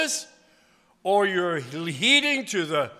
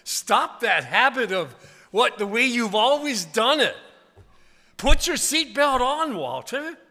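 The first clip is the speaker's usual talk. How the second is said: gentle voice of grace; 4 semitones higher, 3 dB louder, slower than usual. Retold or imitated. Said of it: "Grace says".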